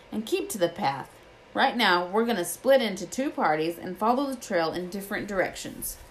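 a touch of rustic gamekeeper; lightly voiced Hagrid. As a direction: lightly voice the gamekeeper explaining a grim find.

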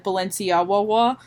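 Balenciaga ending like the end of Chihuahua; misspelled brand pronunciation. Shown as a demonstration. Describing a bootleg's misspelled label, Balenciaga said with a Chihuahua ending. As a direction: say Balenciaga with a "wawa" tail. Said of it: "like, the end of Chihuahua".

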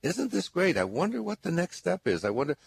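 bright, quick, upbeat self-talk; cheerfully brushing off a closed business; chirpy optimism. Retold or imitated. Caller pep talk, mock delighted inner voice. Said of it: "and to say".

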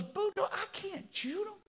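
falsetto Cajun protest; Cajun accent. Acted. Thibodeau refusing Boudreaux's order, high Cajun accent. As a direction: plead very high in comic Cajun. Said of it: "start talking like a Cajun".

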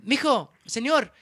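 imitating a lady calling after him; retold screaming. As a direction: call after someone walking away. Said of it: "the lady screaming my name".

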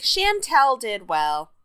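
slow, stiff imitation of Danielle saying Chantel did well; imitating Danielle. Podcaster mimics the judge praising Chantel, slow. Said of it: "she's like".

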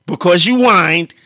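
laughing through a mock quote of the friend; teasing words broken up by laughter. Friend teasing him for making everyone wait, laughing.

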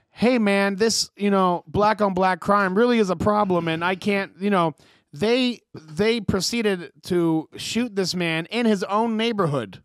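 slow, prim, proper-English mock version of the rapper; imitating a rapper. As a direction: translate his grief into stiff polite speech, slowly. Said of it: "this is gonna be the game".

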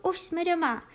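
happy dog voice. Acted. Dog triumphant.

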